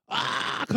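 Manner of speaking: child's wail, imitated; mock crying wail. Son runs crying to his room, mock wail. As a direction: imitate a kid bawling while running off. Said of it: "막 울면서 도망쳐서".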